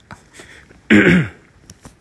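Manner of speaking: throat clearing. Real, not acted. Clears throat mid-talk.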